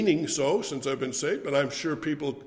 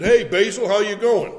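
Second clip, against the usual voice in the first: cheery call; 6 semitones higher, 8 dB louder than usual. Retold or imitated. Greeting Basil as he arrives.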